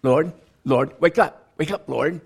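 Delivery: panicked plea. Retold or imitated. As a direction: plead to wake him as the boat sinks. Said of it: "Pete goes up".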